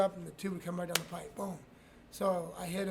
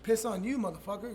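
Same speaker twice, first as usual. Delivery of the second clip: mocking taunt; 3 semitones higher, 5 dB louder than usual. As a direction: fling his own words back with a jeer. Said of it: "I'm like".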